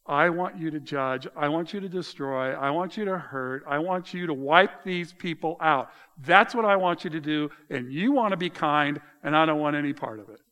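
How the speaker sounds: emphatic, insistent demands, mildly angry; Jonah's demand. Acted. Jonah demands God destroy the Ninevites, mildly angry and insistent. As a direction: drive home each want, building in force. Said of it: "Jonah is saying".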